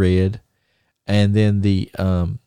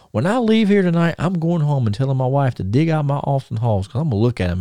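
starts much higher, eager retelling; thrilled promise, pitched up; excited vow; 6 semitones higher than usual. Retold or imitated. Magnum to the circle of wrestlers, excited about his boots.

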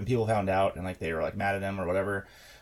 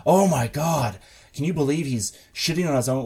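higher, scandalized retelling; mock outrage; 3 semitones higher, 4 dB louder than usual. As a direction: imitate people getting mildly outraged. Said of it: "people were taking that to mean".

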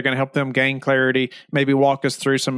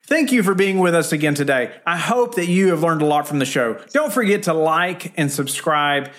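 podcast outro read; 2 semitones higher than usual. Acted. Host thanks listeners and asks them to subscribe, outro read. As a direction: deliver a rehearsed show outro. Host reads the show's sign-off.

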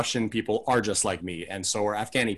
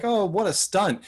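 mock excitement; 9 semitones higher than usual. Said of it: "flying off of a building like".

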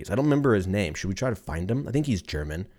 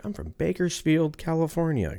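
mock chef voice; 6 semitones higher, 4 dB quieter than usual. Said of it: "He's like".

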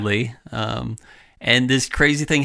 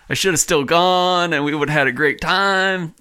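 wistful inner voice; 7 semitones higher than usual. Retold or imitated. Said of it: "a little part of me is like".

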